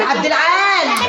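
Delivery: slow, stretched call to another room; long drawn call of the name. Acted. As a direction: stretch the name out to reach him. Wife calling husband again.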